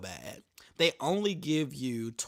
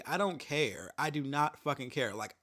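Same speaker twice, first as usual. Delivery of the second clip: normal talking voice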